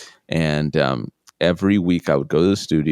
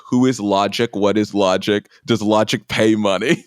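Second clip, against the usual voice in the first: lightly voiced challenging dad, higher pitched; a hint of exasperated parental questioning; sceptical dad; 4 semitones higher, 3 dB louder than usual. Dad challenges his son about a rapper, mildly exasperated.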